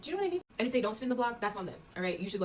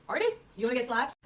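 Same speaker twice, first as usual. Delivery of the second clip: louder, higher threat from an outraged father; hammed-up angry African dad, much higher; mock angry dad; 4 semitones higher, 6 dB louder than usual. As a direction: bark it like a dad outraged at the idea. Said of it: "they'd be like".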